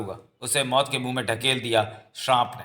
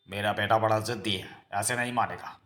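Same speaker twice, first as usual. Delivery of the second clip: low, soft muttering to oneself; scheming aside; 4 semitones lower, 6 dB quieter than usual. Acted. Father plotting against his son's marriage, scheming aside. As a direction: think aloud quietly while plotting.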